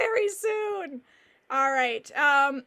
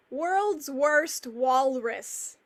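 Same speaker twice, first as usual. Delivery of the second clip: drawn out; much slower than usual. Real, not acted. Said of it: "It's fun to say".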